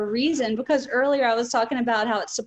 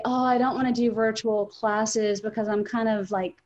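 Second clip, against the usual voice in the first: weary complaining. Retold or imitated. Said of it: "I'll hear people say".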